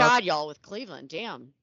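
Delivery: loud exasperated groan. Real, not acted. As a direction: vent at yet another Cleveland case. Exasperated at more Cleveland news.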